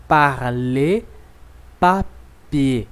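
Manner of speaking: "parler" ending in an è sound, no R; "papier" ending like French ê; R silent in "parler". Shown as a demonstration. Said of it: "o som da letra E com circunflexo".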